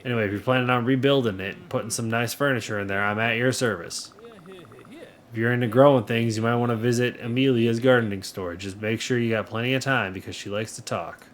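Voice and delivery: easygoing, lightly southern character read; light southern accent. Acted. Townsperson offers the new farmer advice, light southern accent. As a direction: give the shopkeeper a mild southern accent. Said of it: "that is my southern accent".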